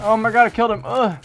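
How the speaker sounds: high, loud burst of disbelief; shocked gamer shout; excited shout. Real, not acted. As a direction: yell it like you can't believe it. Surprise kill mid-match.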